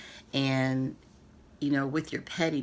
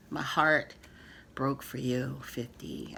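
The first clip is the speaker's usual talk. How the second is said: softer, fading into a near-whisper on fifty; emotional; 3 semitones lower, 4 dB quieter, slower than usual. Real, not acted. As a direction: let it come from the heart, sinking down. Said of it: "I'm getting emotional".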